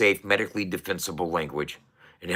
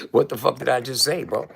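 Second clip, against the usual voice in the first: laughing at himself; 4 semitones higher than usual. Real, not acted. Laughing at own slip.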